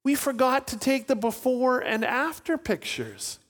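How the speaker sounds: high, mock-distressed voice; wailing over a silly loss; lament. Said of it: "And he goes".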